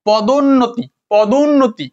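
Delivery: "পদোন্নতি" with the short u joined into the middle; sounded short u. Shown as a demonstration. Teacher showing students the u inside "পদোন্নতি", sounded short u. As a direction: say "পদোন্নতি" as one word, letting the u be heard. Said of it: "হর্ষ আর রস্যুটা উচ্চারণ হচ্ছে না?".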